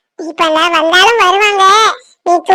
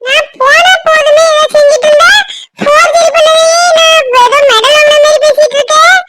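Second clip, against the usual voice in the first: irritated, high-pitched scolding; angry warning; 5 semitones higher than usual. Acted. Man warning his friend over the forgery remark, angry. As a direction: snap a threat at your teasing friend. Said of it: "கோவப்படாத மாப்பிள்ள".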